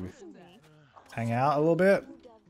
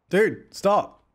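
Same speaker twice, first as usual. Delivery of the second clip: exasperated repeat; 5 semitones higher than usual. Real, not acted. Repeats when ignored.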